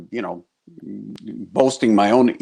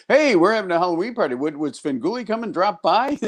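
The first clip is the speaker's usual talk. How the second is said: neighbor's request; 7 semitones higher than usual. Retold or imitated. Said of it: "the people in the neighborhood who go".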